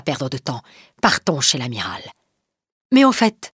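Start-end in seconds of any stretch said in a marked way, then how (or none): 2.9-3.5 louder voice. Acted. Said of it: "ajoute Maurevel d'une voix plus forte".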